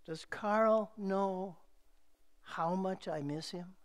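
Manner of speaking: hushed grieving question read aloud; aching, quiet question. Retold or imitated. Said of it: "You can see the tears behind her question".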